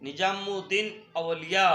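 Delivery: "निजामुद्दीन औलिया" measured out clearly, rising at the end; careful pronunciation. Shown as a demonstration. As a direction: demonstrate "निजामुद्दीन औलिया" distinctly for a class. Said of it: "कैसे बोलेंगे?".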